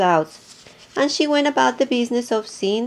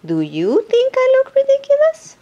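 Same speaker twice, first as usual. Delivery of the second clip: high, hopeful hippo voice; 6 dB louder than usual. Acted. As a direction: ask it as the anxious hippo. Hippo asks each animal.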